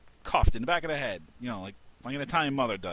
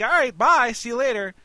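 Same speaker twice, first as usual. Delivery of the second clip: much higher, louder sing-song bye; exaggerated goodbye; 12 semitones higher, 9 dB louder than usual. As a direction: overdo the farewell, a bit baffled. Goodbye again, more emphatic.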